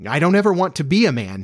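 put-on high, agitated little-boy protest; passionate. A narrator's reading. Boy refusing to grow up, passionate. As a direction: protest with feeling, pitch lifted. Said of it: "he said with passion".

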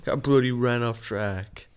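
slow, shaky attempt at British; drawn-out mock-British delivery; attempted British accent. Shown as a demonstration. Playing with the word bloody, attempted British accent. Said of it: "I can't do a British accent".

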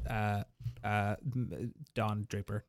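low, soft gravelly Don Draper; deep gravelly voice. Shown as a demonstration. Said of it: "practiced my stage".

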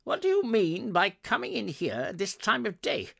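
loud, high, feigned fury; growled scolding. A narrator's reading. Scrooge berating Bob for lateness, growled. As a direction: scold like a crabby employer. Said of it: "growled Scrooge in his accustomed voice".

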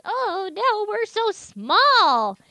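high, slow, small and scared; tiny scared voice. Retold or imitated. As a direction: sound tiny and helpless. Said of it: "they're like".

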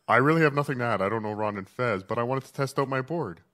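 reverb echo. Real, not acted. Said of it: "Sounds great".

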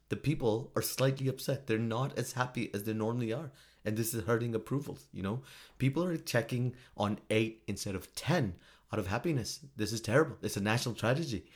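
understated mock Finnish-accented official. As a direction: deliver mild alarm in a put-on Finnish accent. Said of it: "that accent that I'm doing".

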